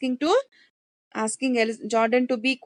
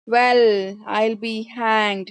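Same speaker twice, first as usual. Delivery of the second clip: stunned exclamation; much slower than usual. Acted. Ben, stunned by the bureau news, exclaims slowly. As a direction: let "I'll" hang slowly after a sharp "Well,".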